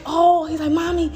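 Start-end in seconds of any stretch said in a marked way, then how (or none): 0.1-0.5 put-on high, louder excited child's gasp; a kid's sudden idea. Mother voices her son's words. 0.7-1.1 put-on a kid's sudden idea; excited kid. Mother voices her son's words.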